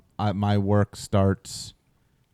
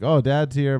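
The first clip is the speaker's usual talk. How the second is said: mildly excited, higher-pitched greeting; imitating happy child; 5 semitones higher than usual. Dad imitating his daughter at daycare pickup, happy higher voice. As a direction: lightly mimic a delighted kid. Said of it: "super happy, like".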